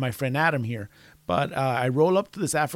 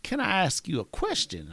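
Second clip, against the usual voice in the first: lightly voiced kid, higher pitch; a hint of a child's voice, raised a little; imitated kid; 5 semitones higher, 4 dB quieter than usual. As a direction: imitate a kid calling out to Santa. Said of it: "the kid says to me".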